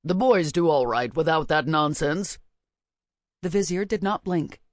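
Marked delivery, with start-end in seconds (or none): 0.0-2.4 sulky king. A narrator's reading. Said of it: "The king thrust out his lip".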